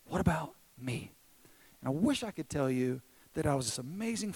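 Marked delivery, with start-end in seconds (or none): 0.1-1.1 drawn-out plea, dropping away after a loud start; needy little son. Retold or imitated. Jealous son to dad after brother is hugged, drawn-out needy plea. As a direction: stretch it out, then trail down forlornly. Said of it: "run over and immediately say".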